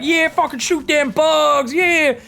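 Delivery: high, loud, slow hick whoop; hammed-up dumb soldier cheering; redneck soldier. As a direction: holler like a trigger-happy redneck. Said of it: "It's like".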